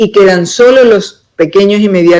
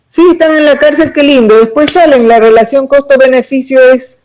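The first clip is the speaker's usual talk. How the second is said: higher-pitched mock reasoning; sarcastic; 5 semitones higher than usual. Interviewee mocking how corrupt officials weigh jail, sarcastic. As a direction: reel off the bargain with irony.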